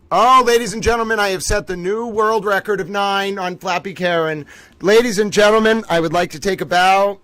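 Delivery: grand mock announcement; mock announcer. Gamer mock-announcing the new world record. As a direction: proclaim it to the crowd.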